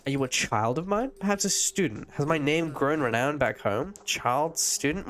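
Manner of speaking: a hint of an uncanny echo voice; eerie character voice. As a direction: read it like a faded memory speaking. Streamer voices Akazet in game.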